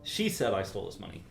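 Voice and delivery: "She" lifted and pressed; stress on SHE. Shown as a demonstration. Teacher shows stress to the composer, landing on "She". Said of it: "depending on how you emphasize".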